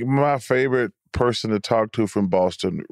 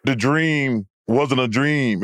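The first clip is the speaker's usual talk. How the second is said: lower-pitched New York accent imitation; mock New York ballplayer, halting; Kenny Smith; 4 semitones lower than usual. Shown as a demonstration. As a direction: drop low and stumble over the boast. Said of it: "How about Kenny?".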